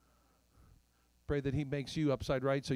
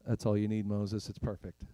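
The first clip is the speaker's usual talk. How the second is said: lower, matter-of-fact answer; calm reassurance; 3 semitones lower, 4 dB louder than usual. Acted. God reassuring Moses about the staff, calm low voice. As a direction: settle it simply, pitch dropping.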